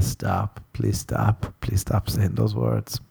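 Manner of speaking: weak pleading through laughter; pleading stop. Real, not acted. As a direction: beg quietly to make it stop. Begging himself to stop laughing.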